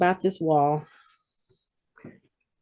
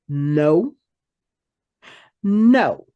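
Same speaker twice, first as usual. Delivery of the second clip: dreading no; 4 semitones lower than usual. Retold or imitated. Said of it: "and I'm like".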